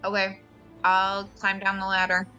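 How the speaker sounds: ordinary talk, nothing marked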